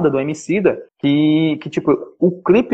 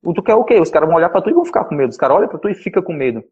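voz levemente mais aguda de um cara imitado; imitating a man; 3 semitones higher, faster than usual. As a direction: imita de leve o cara que o abordou. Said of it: "o cara olhou pra mim e falou". (imitação leve do cara dizendo que ele tem cara de ladrão)

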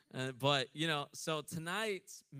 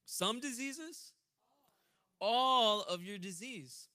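slow, loud, drawn-out proclamation; preaching scripture; 6 semitones higher, 7 dB louder, slower than usual. Acted. Preacher proclaiming healing to congregation, drawn out. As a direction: stretch every word for the room. Reading scripture, call and response.

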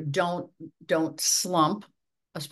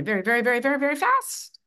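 rapid-fire words climbing in pitch; very fast; 7 semitones higher, 4 dB louder, faster than usual. Shown as a demonstration. Coach showing how quickly a voice can talk, very fast. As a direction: rattle it off, rising higher and higher. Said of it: "we can talk very ... fast".

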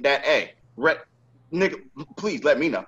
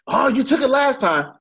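much higher, whiny voice imitating the customer; mock whiny customer; 10 semitones higher than usual. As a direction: mimic an annoying customer's accusation. Accused by the customer, mocked.

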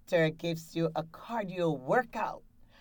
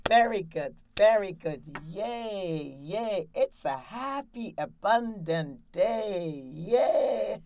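cheerful cheer; 3 semitones higher than usual. Shown as a demonstration. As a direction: cheer like a happy coach leading the clap. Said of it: "you're gonna clap".

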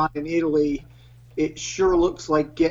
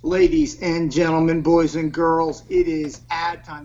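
grand entrance announcement; 4 dB louder than usual. Acted. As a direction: announce it like a circus ringmaster. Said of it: "whenever you're ready, go ahead".

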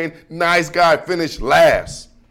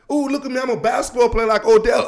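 high, fast prancing mock voice; sneering at cute finesse players; mocking show-off; 4 semitones higher, faster than usual. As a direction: prance through it, mocking a pretty boy.

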